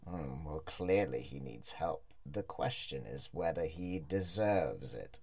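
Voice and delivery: ominous hooded stranger. Acted. Xerxes weighs the stranger.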